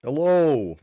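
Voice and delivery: high loud sing-song hello; loud greeting. Real, not acted. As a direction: call out a big hello.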